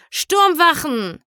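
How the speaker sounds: slow, high croaked alarm cry; croaking. A narrator's reading. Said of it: "krächzte Kapitän Silano".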